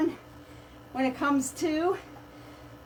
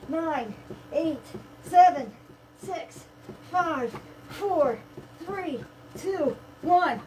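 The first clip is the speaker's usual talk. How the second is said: energetic countdown; 5 semitones higher, much slower than usual. Real, not acted. Sprint countdown.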